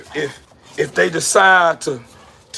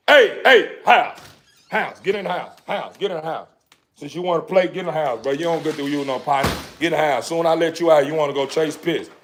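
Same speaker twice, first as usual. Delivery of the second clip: stern scolding; 5 semitones lower than usual. Real, not acted. Scolding his dog to go inside.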